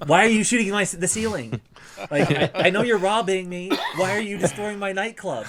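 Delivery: high, loud, frantic pleading; exasperated owner begging them to stop; panicked nightclub owner. Retold or imitated. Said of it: "my favorite was in the nightclub".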